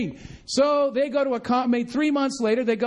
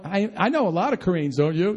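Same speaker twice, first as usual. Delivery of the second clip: dry mock agreement; sarcastic; 4 semitones lower than usual. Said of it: "I'm being sarcastic".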